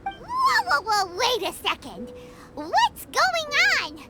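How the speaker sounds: trying to halt the argument; flustered whoa. Acted. Paimon stepping between Eula and Albedo, flustered.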